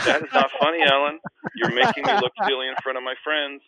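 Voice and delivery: high, loud whiny complaint; mock whiny protest. Todd, embarrassed before his Winnipeg friends, high mock whine. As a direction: whine like a hurt kid. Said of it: "I'm like".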